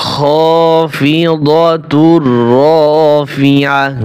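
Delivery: very slow chanted "খাফিদাতুর রাফিআহ", ending on h; recitation with final ha. Shown as a demonstration. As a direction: recite thrice slowly, stopping on h in "রাফিআহ". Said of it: "আগের মতো এখানেও কি হবে? হা হবে।".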